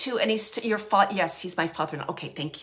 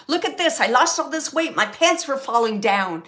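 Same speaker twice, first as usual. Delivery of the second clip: sense of humor; 3 semitones higher, 5 dB louder than usual. Retold or imitated. Medium relaying a dead man's jokes, loud and humorous. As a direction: play up the joke as the man telling it. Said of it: "almost like with a sense of humor".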